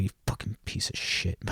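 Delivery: whispered cursing while walking away; acted-out hushed grumble; muttered under breath. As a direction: mutter a curse so nobody quite hears. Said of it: "I'll curse under my breath".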